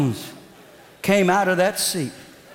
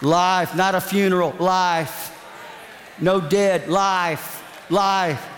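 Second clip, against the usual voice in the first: repeated mild mock church shout; imitating a churchgoer shouting out in praise; much slower than usual. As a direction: chant Life over and over in a lightly hammed-up revival cry. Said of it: "she starts shouting".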